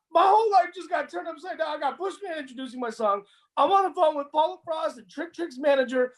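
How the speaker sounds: high, rushing amazed rant; excited kid. Retold or imitated. The kid telling how his whole life flipped, excited. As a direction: pile it on in disbelief.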